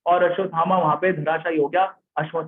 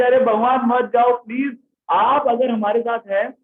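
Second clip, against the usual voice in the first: raised, louder begging; pleading; 4 semitones higher, 3 dB louder than usual. Acted. Kunti begging Krishna not to go back to Dwarka, raised pleading voice. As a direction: implore him not to leave.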